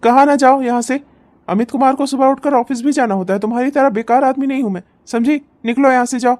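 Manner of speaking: touch of exasperated scolding; irritated order. Acted. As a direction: order her out with mounting irritation. Husband orders wife out of room.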